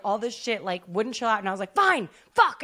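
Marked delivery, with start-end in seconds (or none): 1.7-2.6 exasperated give-in. Retold or imitated. Giving in to the dog.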